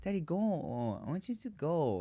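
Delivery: a daddy mimicking his daughter shooing him away; imitating toddler daughter. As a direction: pout it out like a bossy little kid. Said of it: "She's like".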